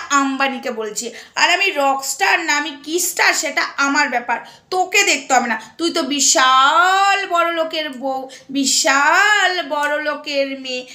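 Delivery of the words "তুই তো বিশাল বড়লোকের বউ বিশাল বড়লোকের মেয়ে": sarcastic sneer. Real, not acted. Sneering at a rich woman.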